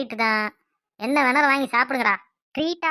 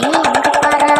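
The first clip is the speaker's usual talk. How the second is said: loud call; 3 semitones higher, 9 dB louder than usual. Acted. Calling friend to look.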